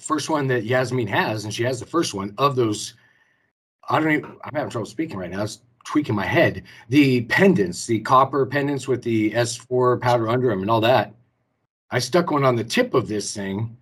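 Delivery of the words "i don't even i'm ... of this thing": breathless, struggling to get words out; talking while short of breath. Real, not acted. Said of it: "Whew, let me catch my breath".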